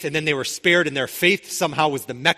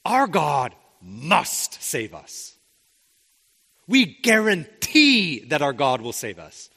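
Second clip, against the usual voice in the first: slow, emphatic wrong version; 2 semitones lower, slower than usual. Shown as a demonstration. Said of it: "They don't say".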